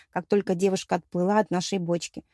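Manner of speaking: ordinary delivery, nothing marked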